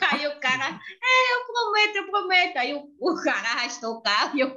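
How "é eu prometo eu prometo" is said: high, meek promise; sheepish man. Retold or imitated. Driver promising the girl, high and meek. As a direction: promise it like a caught culprit.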